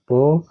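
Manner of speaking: पॉ held out on its own; single syllable. Shown as a demonstration. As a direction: count off पॉ as a separate syllable. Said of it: "एक हो गया".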